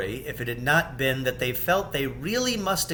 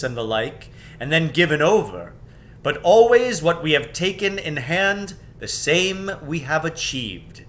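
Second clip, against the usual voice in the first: proud declaration to his sisters; louder kingly resolve; resolute King Peter; 3 semitones higher, 6 dB louder than usual. Acted. King Peter insists on going.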